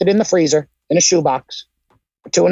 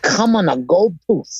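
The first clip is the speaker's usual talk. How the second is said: Jim Cornette impression. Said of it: "Just like Jim Cornette would say".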